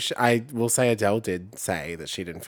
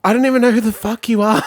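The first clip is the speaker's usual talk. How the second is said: mock exasperation; 11 semitones higher, 7 dB louder than usual.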